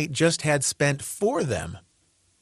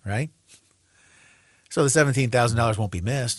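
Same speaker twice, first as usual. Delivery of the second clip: sarcastic. Acted. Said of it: "Hopefully you note the sarcasm".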